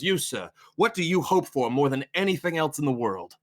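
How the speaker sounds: lightly voiced sermon question; single out one listener like a preacher. Preacher pointing at a man in the congregation, orating.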